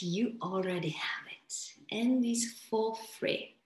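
soft unvoiced aside; whisper. Shown as a demonstration. Coach confiding to the audience, whispered. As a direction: say it like a secret.

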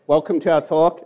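normal talking voice

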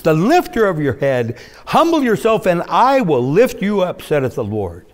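rising preached declaration; voice of God. Acted. Preacher voicing God's promise to the congregation, rising. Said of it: "And God says".

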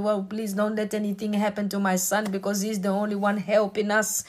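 a hint of a grateful mother murmuring to God; a parent's bedtime prayer. Parent praying for child at night.

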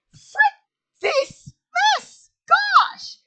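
high, loud frustrated outburst; frustrated yell. Real, not acted. Frustrated at botched outro.

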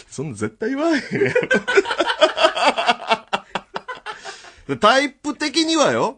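high, laughing through an imitated brag; laughing mock quote. Host retelling the fake comedian's brag, laughing high. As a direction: crack up while aping him. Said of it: "みたいな".

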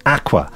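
"Aqua" with short flat a, ACK-wa; English aqua. Shown as a demonstration. Letter reader introducing the next word, English short-a aqua. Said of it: "mad dogs as aqua".

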